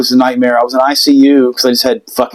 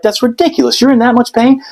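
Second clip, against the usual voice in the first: incredulous nurse; 8 semitones higher than usual. Retold or imitated. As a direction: play the nurse who can't believe it. Nurse voiced in story.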